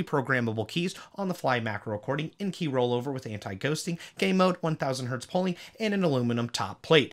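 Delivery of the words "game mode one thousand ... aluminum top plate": out of breath. Real, not acted. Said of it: "Whew, I almost ran out of breath there".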